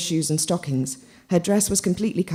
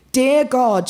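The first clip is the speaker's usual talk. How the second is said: mock prayer call; 8 semitones higher, 5 dB louder than usual. A narrator's reading. Christina praying aloud.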